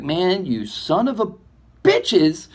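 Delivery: playful cursing that fades into a whisper; teasing insult, not angry at all; mock curse. Laughing off a betrayal.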